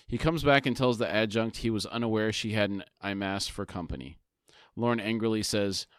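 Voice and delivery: measured read-aloud summary; story narration. A narrator's reading. Co-host reads the book summary to his partner, story narration. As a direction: narrate the scene with deliberate phrasing.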